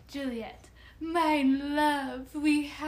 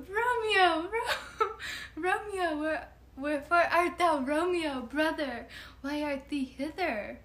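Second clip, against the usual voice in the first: dramatic Mercutio; 4 semitones higher than usual. Acted. Mercutio cries to Romeo.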